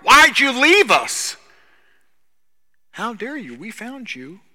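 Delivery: high, loud, slow mock complaint fading off; hammed-up whine of abandonment; indignant crowd. Crowd scolding Jesus for sneaking away, mock whine. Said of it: "is kind of what they're saying".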